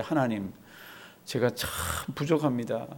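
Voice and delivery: soft, low, humble prayer voice; a lowly whispered-down plea to God. Shown as a demonstration. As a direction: confess it quietly before God. Preacher models a humble prayer.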